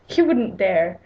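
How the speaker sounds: lightly put-on British accent; reply in an amateur British accent. Mother answering her daughter, in a light British accent. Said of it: "like, a British accent".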